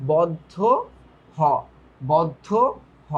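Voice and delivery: বদ্ধ and হ given as separate slow units, each with its own pause; spelled-out emphasis. Shown as a demonstration. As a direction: spell out বদ্ধ, then হ, letter by letter. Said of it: "সে কিসের মতো উচ্চারিত হয়?". (শিক্ষকের ধীরে বানান করে জোর)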